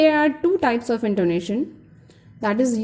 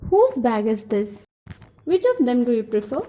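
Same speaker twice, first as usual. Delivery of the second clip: questions with pitch going down on "this" and "prefer"; falling question intonation; faster than usual. Shown as a demonstration. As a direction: let "this" and "prefer" drop at the end. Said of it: "the pitch gets down".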